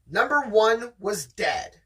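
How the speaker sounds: steady read-aloud storytelling voice; story narration. Acted. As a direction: read it like the audiobook. Rereading the reveal.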